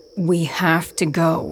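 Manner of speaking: growled through clenched teeth. Narrator reads Reiner's line, growled through clenched teeth. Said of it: "Reiner growls through clenched teeth".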